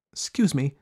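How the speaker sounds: put-on high, courteous child character; most polite. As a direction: open politely in a young elephant's high voice. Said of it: "said the elephant's child most politely".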